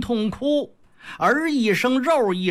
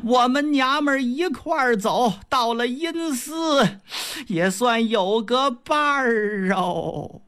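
keen over the beaten son; wailing mother; 5 semitones higher than usual. Acted. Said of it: "又趴在宝玉身上是一阵大哭啊".

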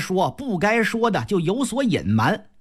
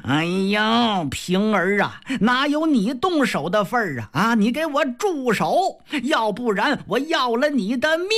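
raised, rising angry husband; drunken threat; 2 semitones higher than usual. Acted. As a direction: bark the threat at the maid. Jia Lian threatens Ping'er.

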